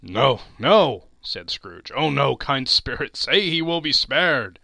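pleading. Acted. Scrooge pleads with the spirit.

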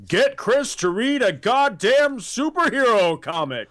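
announcer booming it out high and loud; big booming voice. Pretend. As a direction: boom it like a movie trailer voice. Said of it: "a big booming voice that comes out and says".

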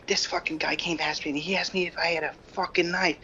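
mock Brooklyn. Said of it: "she goes".

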